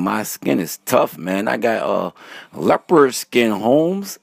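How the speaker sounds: a light, bad Mexican accent; half-hearted Mexican accent, Holmes. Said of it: "My Mexican accent is terrible".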